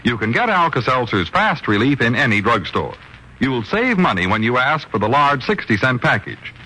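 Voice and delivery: smooth persuasive commercial voice; radio ad read. Acted. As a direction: sell the product calmly. Reads the sponsor ad.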